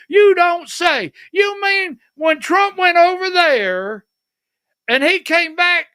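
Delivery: high, mock-astonished voice; mock surprise. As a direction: play it big and incredulous.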